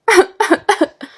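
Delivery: high, hammed-up mock sob; fake sobbing. Shorouq leaving grandfather's house, fake sobbing. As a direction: wail in put-on sobs.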